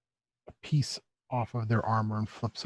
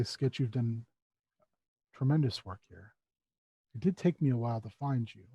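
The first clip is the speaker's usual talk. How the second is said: low, soft, measured robed figure; robed visitor; 3 semitones lower, 4 dB quieter than usual. Acted. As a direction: speak quietly and lower, unhurried, to a servant.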